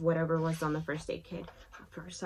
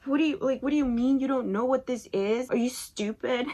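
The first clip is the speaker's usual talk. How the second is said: mean; 6 semitones higher, faster than usual. Retold or imitated. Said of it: "I was really mean".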